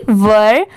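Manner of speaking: low-pitched वर with a neutral "ur" vowel; correct pronunciation. Shown as a demonstration. Teacher repeating the corrected word after spelling, correct pronunciation. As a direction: model one-syllable वर on its own. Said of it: "इसकी pronunciation है वर".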